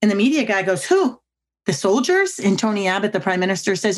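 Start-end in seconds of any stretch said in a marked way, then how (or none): 0.8-2.4 much higher, startled question; a reporter who can't believe his ears; incredulous reporter. Retold or imitated. Reporter presses the prime minister, much higher and incredulous.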